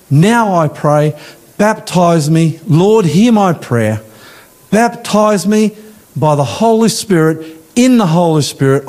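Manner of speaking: slow, emphatic prayer delivery; model prayer. Shown as a demonstration. Preacher showing the congregation how to ask for it, slow earnest prayer. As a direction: plead earnestly, drawing out the phrases.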